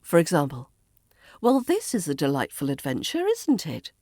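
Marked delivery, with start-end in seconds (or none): 1.4-3.9 composed British understatement, lifting on the tag question; unflustered composure. Shown as a demonstration. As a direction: stay politely unruffled though utterly lost. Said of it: "a true Brit remains unflustered".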